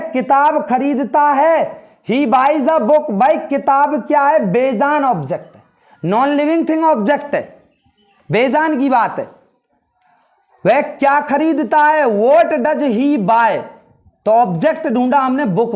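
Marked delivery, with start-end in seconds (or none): 2.1-3.1 each word drawn out slowly; careful word-by-word classroom reading; slow model reading. Shown as a demonstration. Teacher models English sentence. 12.1-13.6 each word drawn out slowly; careful word-by-word classroom reading; slow model reading. Shown as a demonstration. Teacher models English question.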